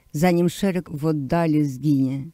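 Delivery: plain reading voice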